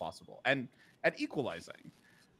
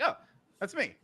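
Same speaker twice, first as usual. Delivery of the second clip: high, laughing through the words; delighted laugh at being quoted; 9 dB louder than usual. Real, not acted. Host hears a fan quote her own words, high laughing reply.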